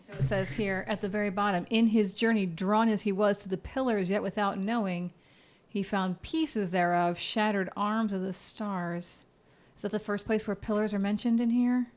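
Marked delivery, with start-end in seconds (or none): 1.7-9.2 reading verse aloud. Acted. Game master reads poem to players, measured verse reading.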